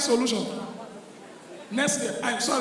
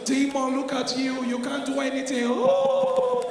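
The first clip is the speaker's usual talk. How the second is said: Gen Z prayer. Acted. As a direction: taunt the demon lightly, like a youngster praying. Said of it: "all the Gen Z now there was".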